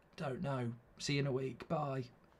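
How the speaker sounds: put-on sore-throat voice. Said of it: "talking like you've got a sore throat".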